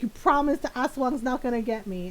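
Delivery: lightly voiced anxious question; mildly worried brother. Scared brother asking oldest sister to promise, mildly anxious. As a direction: ask for a promise, a touch worried. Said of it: "really scared".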